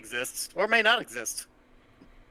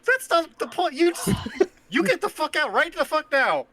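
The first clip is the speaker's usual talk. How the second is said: high, loud furious shouting; furious yell; 14 semitones higher, 4 dB louder than usual. Acted. Guard yells at the player to get out, furious and loud. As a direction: throw the intruder out at full volume. GM voices NPC ordering player out.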